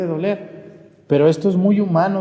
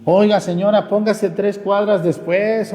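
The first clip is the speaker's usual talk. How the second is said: indignant complaint; 6 semitones higher than usual. Acted. Imagined complaint to rival vendor.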